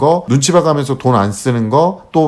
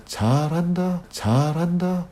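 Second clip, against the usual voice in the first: softer, gently repeated praise; 4 semitones higher, 8 dB quieter, much slower than usual. Shown as a demonstration. Mother softly praising her son, quiet and gentle. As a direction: praise the kid quietly, under the breath. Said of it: "이렇게 칭찬해 주세요".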